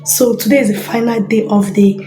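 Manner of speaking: husky voice from a cold; hoarse cold voice. Real, not acted. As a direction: talk through a sore throat. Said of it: "I have cold".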